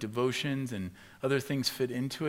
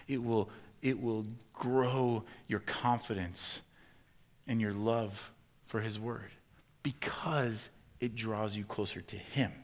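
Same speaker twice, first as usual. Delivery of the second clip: hushed, slow close; slower than usual. Acted. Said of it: "slows to hushed close".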